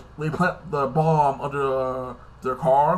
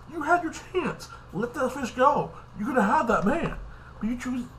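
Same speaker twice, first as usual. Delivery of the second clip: much higher, put-on sassy voice; mock sassy scolding; 10 semitones higher than usual. Reviewer scolding a jealous TV character, mock sassy and high.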